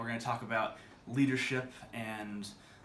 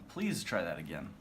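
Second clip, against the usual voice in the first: "Please" leaned on, rest falls away; stress on "Please"; 4 semitones lower than usual. Shown as a demonstration. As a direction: put the weight on "Please". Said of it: "different inflection on the words".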